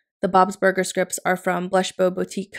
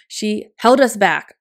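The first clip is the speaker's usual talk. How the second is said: slow, louder teasing gripe; mock complaint; 6 dB louder, slower than usual. Daughter teasing viewers about her mom, mock grumbling. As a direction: pretend to blame mom, playfully. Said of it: "I'm just kidding".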